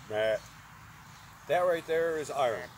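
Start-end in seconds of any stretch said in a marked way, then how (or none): 0.1-0.4 short mock detector beep; imitated low beep. Shown as a demonstration. Detectorist showing viewers the beep, imitated low tone. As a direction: mimic the detector's low tone in one syllable. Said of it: "It, it's a low".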